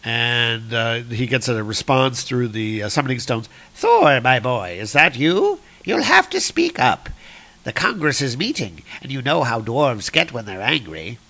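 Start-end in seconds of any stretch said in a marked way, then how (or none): 3.7-11.2 lightly voiced queen, pitch swooping up; a hint of a fussy mother on a bad connection; Freya. Queen answering Thor through summoning stones, lightly acted mother.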